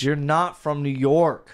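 slow, put-on East Coast accent. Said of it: "you're talking like an East Coast".

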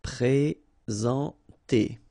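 Présenter very slow, nasal en; pray-zahn-tay, stretched out; Présenter spelled out slowly in sound; slow model word. Shown as a demonstration. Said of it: "nasal, en".

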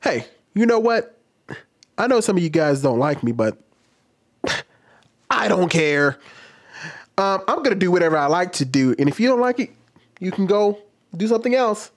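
lightly hammed-up preachy creator talking to camera; mock TikToker. Shown as a demonstration. Mocking TikTokers who lecture followers, light smug creator voice. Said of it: "I have to do an example".

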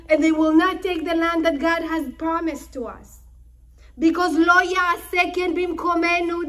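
firm reassurance. Retold or imitated. Sons reassure their father.

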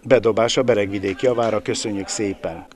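ordinary talk, nothing marked

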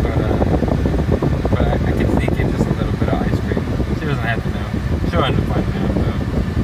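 conspiratorial whisper. Real, not acted. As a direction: whisper it like a secret. Secret about sneaking ice cream.

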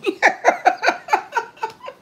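a burst of high, bright laughter; high fond giggle. Real, not acted. Mother laughing after praising her son, high giggle. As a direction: giggle fondly at your own words.

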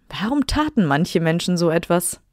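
plain reading voice

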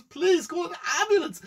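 high, loud cry for help; mock panic. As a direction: plead urgently as if choking. Choking man begs for ambulance.

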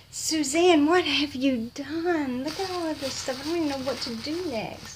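high, singing-out amazement; mock-scold a generous friend in delight; gush, starting loud and high; overwhelmed delight. Real, not acted. Mock-scolding the generous gift sender.

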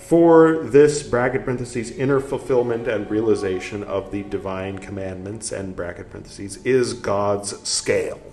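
emphatic reading, punctuation announced; strong openings, easing through each phrase; book read-aloud. Acted. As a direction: read the text out firmly and deliberately.

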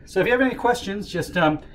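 winded after running upstairs; breathless, still catching breath. Real, not acted. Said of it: "Sorry, I'm out of breath".

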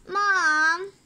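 loud, stretched-out "Mom"; exasperated child's complaint; whiny protest. Acted. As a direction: groan it out like a protesting kid. Kid protests to mother.

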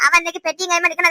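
ordinary delivery

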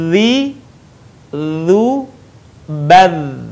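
'zi, zu, bad' as voiced tongue-tip-on-teeth buzz; dha without air. Shown as a demonstration. Teacher drilling dha, 'zi, zu, bad' without airflow. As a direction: buzz each syllable separately, holding air back. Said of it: "Tahan udaranya".

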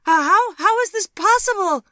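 loud, high-pitched stammering cry; shrieking, disbelieving outburst; horrified cry. A narrator's reading. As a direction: cry out in shocked disbelief, stumbling over the words. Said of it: "she cried".

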